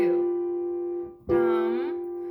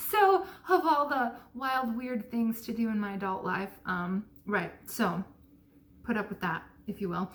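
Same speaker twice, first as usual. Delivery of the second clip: talking around new braces; slightly lisping through braces. Real, not acted. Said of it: "I'm talking funny because I got braces".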